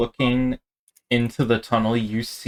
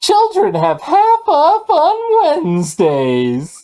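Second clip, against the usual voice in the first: shrill, very high, loud feminine voice; 8 dB louder than usual. Game master voicing a response heard after three hits, in a more feminine voice. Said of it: "It sounds more feminine".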